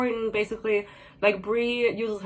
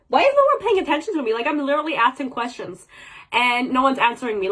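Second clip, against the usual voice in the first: mock whiny complaint; 2 semitones higher, faster than usual. Mocking the heroine ignored by everyone, whiny. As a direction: whine like a spoiled girl nobody listens to.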